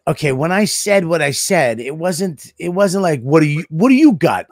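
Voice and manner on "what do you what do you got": louder, pushy retold question; confrontational question. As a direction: ask it like a mild challenge. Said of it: "It wasn't that. It was like, it was tone issues".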